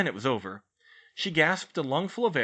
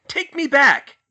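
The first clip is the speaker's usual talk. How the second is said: even louder, desperate yell; louder furious demand; 14 dB louder, slower than usual. A narrator's reading. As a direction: scream it, losing control. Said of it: "he yelled".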